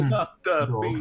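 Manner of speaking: buzzing Doctor Bees voice. Acted. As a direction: buzz it like a bee. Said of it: "you do a great Doctor B's voice".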